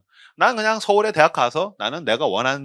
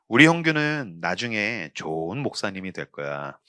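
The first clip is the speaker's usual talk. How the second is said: tender mother; 9 semitones lower, 4 dB quieter, slower than usual. Retold or imitated. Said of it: "우리 엄마 그랬어요".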